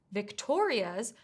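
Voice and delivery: Victoria's said slowly, stress on the second syllable, vic-TO-ria's. Shown as a demonstration. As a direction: lean on TO in Victoria's, slow and clear. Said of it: "the stress needs to be on the second syllable".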